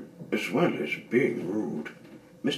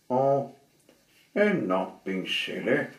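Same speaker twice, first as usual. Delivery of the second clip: louder goblin insisting; lightly voiced goblin; goblin protest; 4 semitones higher, 5 dB louder than usual. Goblin voice in story.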